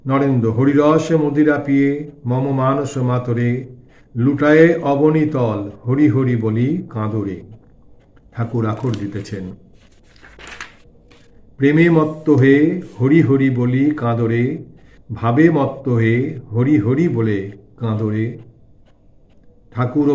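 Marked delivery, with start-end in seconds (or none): 0.5-9.4 slow, rolling recital with stretched vowels; devotional verse recitation. A narrator's reading. Narrator voicing Narendra's song for the devotees, slow devotional recitation. 11.6-18.4 slow, rolling recital with stretched vowels; devotional verse recitation. A narrator's reading. Narrator voicing Narendra's song for the devotees, slow devotional recitation. Recites Thakur's added refrain.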